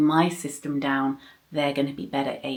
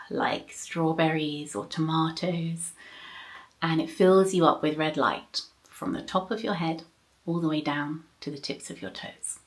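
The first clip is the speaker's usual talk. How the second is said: guided meditation; 3 dB quieter than usual. Shown as a demonstration. Recites the bedtime meditation script.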